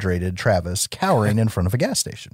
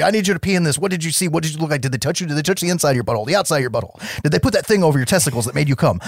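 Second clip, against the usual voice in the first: pushy investigator; 5 semitones higher, much faster than usual. Retold or imitated.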